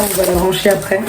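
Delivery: losing her voice, rough and strained; real laryngitis, voice half gone; hoarse voice. Real, not acted. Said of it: "j'ai une extinction de voix".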